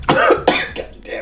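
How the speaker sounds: choking cough, breathy strained words; swallowed wrong way. Real, not acted. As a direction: sputter after drink goes down wrong. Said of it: "Wrong pipe".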